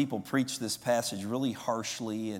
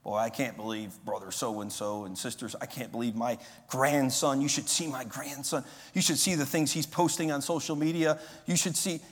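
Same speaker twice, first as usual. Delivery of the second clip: gossiping griper. Retold or imitated. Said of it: "you just gripe to other people".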